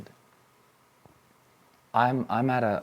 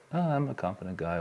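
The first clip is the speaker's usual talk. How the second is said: quick, offhand mock bravado; mock confidence; faster than usual. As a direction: toss it off as hollow self-talk. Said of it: "I don't say it as if like".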